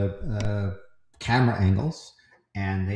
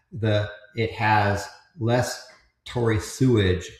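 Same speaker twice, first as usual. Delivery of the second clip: laughing; 4 dB louder than usual. Real, not acted. Joking about sewage, laughing.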